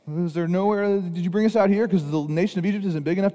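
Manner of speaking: high, loud frantic yell; panicked shouting. Retold or imitated. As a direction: shout at Moses as if the world is ending. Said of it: "They're just panicking".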